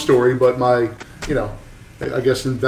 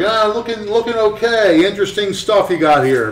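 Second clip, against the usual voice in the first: polite faint praise; 7 semitones higher than usual. Retold or imitated. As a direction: say it's fine while meaning it sucks. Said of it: "meaning this sucks".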